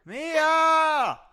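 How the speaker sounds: very high, very loud drawn-out scream; wailing mock cry. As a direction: wail after her with all-out melodrama. Calling the lost friend back.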